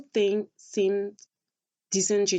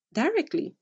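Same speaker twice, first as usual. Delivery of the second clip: incredulous; 10 semitones higher than usual. Real, not acted. Incredulous rhetorical question.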